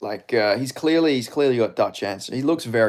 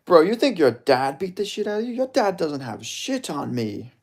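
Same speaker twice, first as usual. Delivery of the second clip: Strickland; 6 semitones higher than usual. Acted. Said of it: "I was doing Strickland's way".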